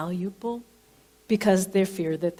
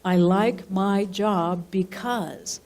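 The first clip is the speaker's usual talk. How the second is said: slow and deliberate, falling at the end on "because"; dictating a line to write down; slow dictation; much slower than usual. Shown as a demonstration. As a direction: spell out "I like my job because" slowly, letting it fall. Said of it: "jot on the very top".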